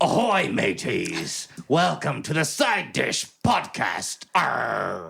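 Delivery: put-on pirate voice. Opening the podcast with an epic intro, in a put-on pirate voice. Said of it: "I'm gonna launch into this epic intro".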